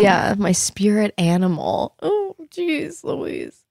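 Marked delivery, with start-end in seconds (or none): 2.0-3.6 mock exasperated. Stumped by a spirit animal question.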